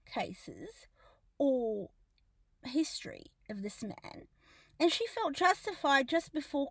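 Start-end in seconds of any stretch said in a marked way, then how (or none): 1.4-4.3 dropped aside. Real, not acted. Aside in a rant.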